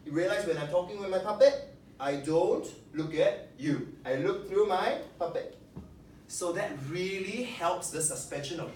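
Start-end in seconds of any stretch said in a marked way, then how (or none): 0.0-5.6 talking through the puppet in a put-on voice; puppet voice demo. Shown as a demonstration. Teacher showing the class a puppet voice. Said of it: "So like this".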